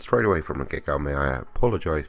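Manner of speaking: stuffy head cold voice. Real, not acted. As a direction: sound a bit under the weather. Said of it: "apologize if I sound a bit, uh, worse for wear".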